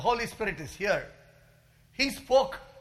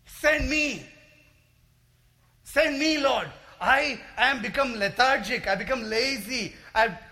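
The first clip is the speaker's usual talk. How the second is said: model prayer; 6 semitones higher, 6 dB louder than usual. Shown as a demonstration. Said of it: "Go ahead and tell the Lord".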